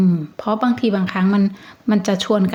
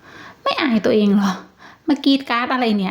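mildly scornful inner voice; 3 semitones higher than usual. Retold or imitated. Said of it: "แต่คุณแบบรู้สึกแบบว่า".

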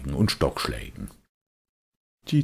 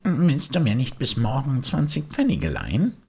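put-on high, longing puppet boy; a boy pulled toward the music; wistful high boyish voice; Bengele's voice; 11 semitones higher than usual. Bengele begs a loan.

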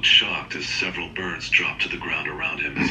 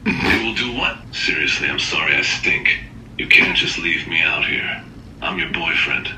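upset pleading; 4 dB louder than usual. Acted. Boyfriend shut out, growing upset.

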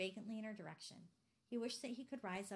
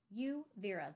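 louder call across the room; 6 dB louder, slower than usual. A narrator's reading. Mother calls out to Vera to stop, louder call. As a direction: call her daughter to order. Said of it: "the mother called".

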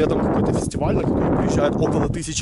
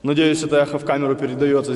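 empty warehouse echo. Real, not acted. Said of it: "слушайте, какое здесь эхо".

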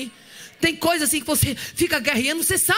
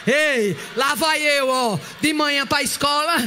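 normal talking voice

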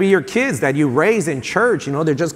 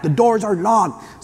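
retold yell back; 4 semitones higher, slower than usual. Boy calling back to his dad across the church, mock yell. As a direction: call it back, stretched out slowly. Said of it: "I yell back".

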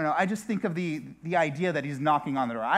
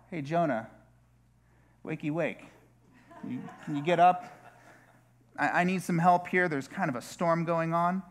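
mock gentle God. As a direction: coax him awake, too gently. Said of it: "I do not imagine a scenario where God's going".

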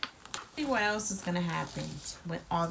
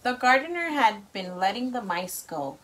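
lively storybook read-aloud; reading to children. A narrator's reading. Parent reads story to child.

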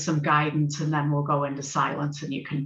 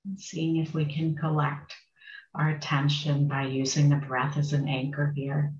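unhurried meditation guidance with long pauses; guided meditation. Acted. Meditation teacher settling a group into sitting, guided meditation. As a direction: guide them gently, phrase by phrase, leaving space.

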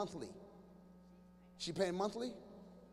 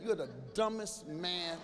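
lower, slow, deadpan insult; mock fed-up wife; 5 semitones lower, 4 dB quieter, slower than usual. Wife scorning her husband after the wedding. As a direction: drop the sweetness and sneer it. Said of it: "We get married".

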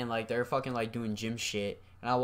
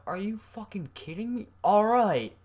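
much higher, disbelieving then giving in; whiny outrage that caves at the end; higher, indignant whine, then a loud grudging all right; exasperated kid; 10 semitones higher, 5 dB louder than usual. Retold or imitated. Kid protests being sent out.

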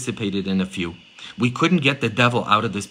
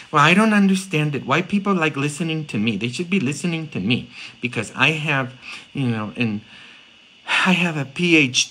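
puzzled, self-important mock complaint, higher; self-important priest; 3 semitones higher than usual. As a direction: imitate a priest baffled that he is overlooked. Acting a boastful priest.

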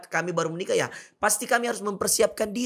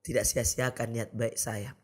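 retold near-tears prayer; 6 semitones lower, 5 dB quieter than usual. Brother thanking God over his veiled sister, hushed and moved. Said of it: "Saya mau nangis".

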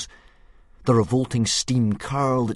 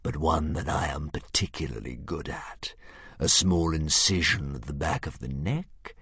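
hissing serpent dragon; 3 semitones lower than usual. Acted. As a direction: savour it with cruel relish. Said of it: "hissed the dragon nastily".

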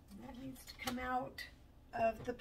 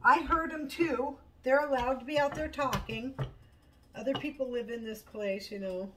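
raised voice, drawing out the complaint; exasperated scolding; 3 semitones higher, 6 dB louder than usual. Real, not acted. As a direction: reason loudly with a barking pet. Arguing with the barking dog.

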